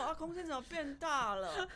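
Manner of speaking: high, loud, laughing; amused retelling. Real, not acted. Pet owner retelling someone noticing the emptier room, laughing.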